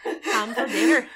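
laughing attempt at an Irish accent. Shown as a demonstration. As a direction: try a bad Irish accent, amused. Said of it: "I'll do my Irish accent".

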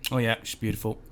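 quick, offhand 'don't care' delivery; dismissive. Acted. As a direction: toss it off like you don't care. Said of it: "It sounds very dismissive, like you don't care".

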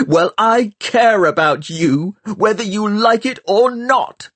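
high, loud scream; boy screaming at the girl during the quarrel. A narrator's reading. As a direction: force the care out as anger. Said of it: "Tom screamed".

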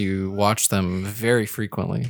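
dry, deadpan sarcasm; sarcastic. Acted. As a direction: tease him with fake praise. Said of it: "That's sarcasm".

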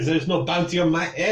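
put-on suspicious French-accented check. Cook checks the knight is no bounty hunter, French accent. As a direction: make sure of it in a French accent. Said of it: "you can do a French accent".

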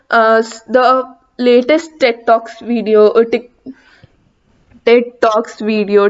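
tripping over words, restarting; stammering. Real, not acted. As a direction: stumble and restart mid-phrase. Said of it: "I'm just stammering".

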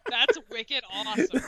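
thick Boston wicked awesome; hammed-up Boston accent. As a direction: put on broad Boston talk. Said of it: "a wicked thick Boston accent".

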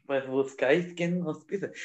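slow mock Spaniard; Spain accent with Z. Joking after being told off for the Z, slow Spain accent. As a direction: put on a lisping Spain Spanish. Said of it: "¿Por qué estás hablando con la Z?".

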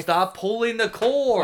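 loud, slow exasperated yell; shouting. Real, not acted. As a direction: bark it across the room. Yelling at cohost over cord.

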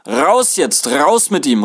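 high, loud impatient shout; shouted demand. A narrator's reading. Waiting crowd wants the passenger thrown out, shouting. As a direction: shout it in from outside. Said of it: "rief es von außen hinein".

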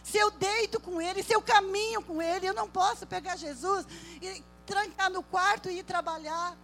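from plain to loud and high, each line stronger; building sermon litany. Acted. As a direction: stack the phrases, rising to a shout.

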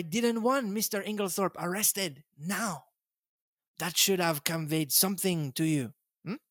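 lightly voiced Belgian detective, gently smug; a hint of Poirot, explaining to his friend. Poirot gently teasing Hastings, lightly voiced.

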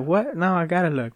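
mock eager wife who must see; curious wife. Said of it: "She's like".

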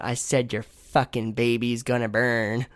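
slow, lightly imitated creepy old lady. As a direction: draw out the menacing movie line. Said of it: "That lady's creepy as fuck".

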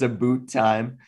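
"a boot time" with about turned to oo; mock Canadian vowel. Host echoing co-host's joke, mock Canadian "a boot time". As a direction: echo the caricature "a boot time". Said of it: "I do think Canadians kinda say this".

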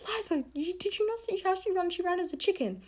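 a touch of outraged disbelief; indignant protest. Retold or imitated. Defending herself to her best friend, mock indignant protest. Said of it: "And I was like".

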